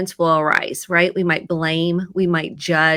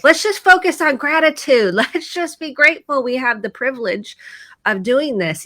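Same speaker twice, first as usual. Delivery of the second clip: mock lecture; 5 semitones higher than usual. Mom lecturing kids on gratitude.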